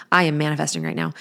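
quick, playful I am manifesting right now; playful announcement. Retold or imitated. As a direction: tease the kids with it, briskly. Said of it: "I'm like, "Ooh".

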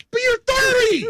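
high, loud cry of disbelief; shouting at cohost about adults liking cute toys; exasperated yell. Real, not acted. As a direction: throw your hands up and shout it.

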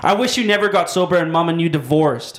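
put-on mildly spiteful kid; spoiled brat. Son lashing out at dad, light bratty complaint. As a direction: throw it at dad like a bratty child. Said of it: "Shibes is a spoiled brat".

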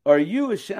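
breathy laughing whisper; whispering through a laugh. Real, not acted. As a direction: whisper it while giggling.

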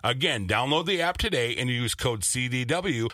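upbeat sponsor read in the host's voice; lively, friendly ad read. Acted. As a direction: sell it like a podcast ad. Host reads sponsor ad.

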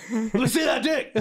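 high laughing mock plea. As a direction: beg playfully through laughter. Voicing the man's request.

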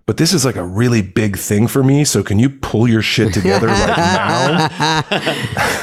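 mock sympathy turning into a blunt request, laughing at the end; deadpan selfish plea. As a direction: feign concern, then ask her to pull it together. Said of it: "And I was like".

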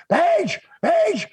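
high, frantic retelling of her panic; mock panicked scream. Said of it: "Kimberly screaming".

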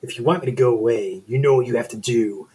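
lightly voiced lusty monster; hormone monster voice. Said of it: "I can do a better hormone monster voice".

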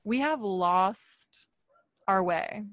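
slow, deliberate pronouncement; grave verdict with weighted pauses; blunt, not gentle. Real, not acted. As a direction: say it plainly, drawing out the words. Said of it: "no gentle way for me to say that".

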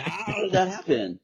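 high incredulous question; mock disbelief, high. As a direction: ask it in disbelief, pitch shooting up. Indignant retelling.

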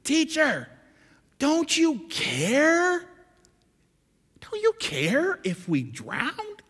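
high, slow pleading cry; desperate disciples. Acted. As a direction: beg Jesus as the boat sinks. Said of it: "look what they do".

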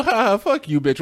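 light, teasing laugh in the voice; joking. Shown as a demonstration. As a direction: toss the insult off with a laugh. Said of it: "leading to a different type of feeling".

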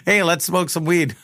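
high-pitched imitation breaking into laughter; retold casual invitation. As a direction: deliver her surprise offer through amusement.

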